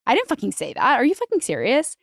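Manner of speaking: imitating someone taking great offense; offended. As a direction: act out an affronted, sweary protest. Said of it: "very, like, offended by that".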